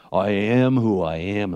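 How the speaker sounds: lightly put-on deep voice, slowed; a hint of booming God, slowly; movie God voice. Shown as a demonstration. Preacher showing how a film would do it, mild deep God voice. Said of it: "it'd be in a really deep voice".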